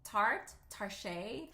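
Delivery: "tart, tarche" fumbled between English and Spanish sounds; trying out "tart" and "tarche" in turn; struggling pronunciation. Shown as a demonstration. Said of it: "Like this, I can't".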